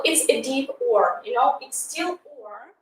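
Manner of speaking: "or" said deep and soft, from the throat. Shown as a demonstration. Teacher demonstrating a deep British "or". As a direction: say "or" deeply, softly. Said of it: "Uh, look".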